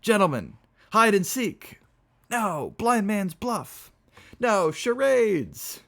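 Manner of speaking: very high, loud party shouts; screaming. Acted. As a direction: scream out each game, stretching the words. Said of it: "and screamed".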